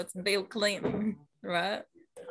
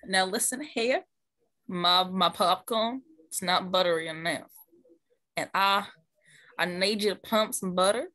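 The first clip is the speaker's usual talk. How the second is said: put-on Texas accent. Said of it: "I can do a Texas-ish accent".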